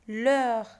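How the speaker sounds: "L'heure" as a single strong syllable; isolated syllable. Shown as a demonstration. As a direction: punch out "L'heure" by itself. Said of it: "on va découper les vers".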